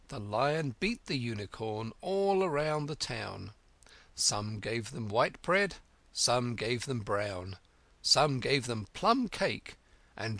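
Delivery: measured, slow nursery-rhyme recitation; reciting an old song. A narrator's reading. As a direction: recite the rhyme line by line, unhurried. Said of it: "repeating to herself as she ran the words of the old song".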